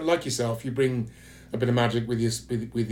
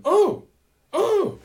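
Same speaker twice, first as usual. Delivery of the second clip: high, excited mock American gushing; 5 dB louder than usual. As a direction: squeal it like a starstruck American fan. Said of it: "Somehow they go".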